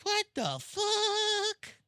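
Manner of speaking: incredulous. Retold or imitated. Reacting to fans' weird behaviour.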